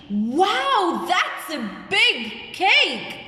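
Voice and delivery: high, drawn-out wow of amazement; teacher acting out surprise; amazed. Shown as a demonstration. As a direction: marvel slowly with big rising swoops. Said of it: "I'm showing that I'm amazed".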